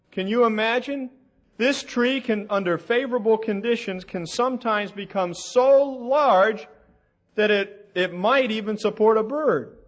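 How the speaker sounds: high-pitched, sarcastic wonder; mock amazement. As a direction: marvel at it as if astounded, tongue in cheek. Sarcastic awe at a small tree.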